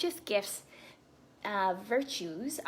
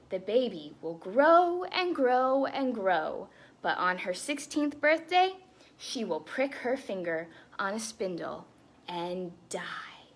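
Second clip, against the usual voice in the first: slow grand curse sinking to a whispered death; evil fairy's curse. Acted. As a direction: pronounce the curse, then whisper the end. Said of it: "she proclaimed".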